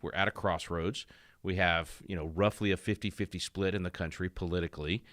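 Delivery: ordinary delivery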